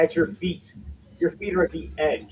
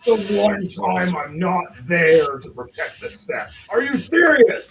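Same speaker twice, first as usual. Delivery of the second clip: exasperated giant; 3 semitones higher, 6 dB louder than usual. Acted. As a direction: build from drawn-out grumbling to loud disbelief. Game master voices the exasperated giant.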